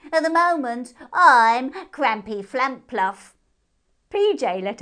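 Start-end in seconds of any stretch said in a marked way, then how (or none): 0.1-3.4 high, loud, slow name; grand hare. A narrator's reading. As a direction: announce it with pride.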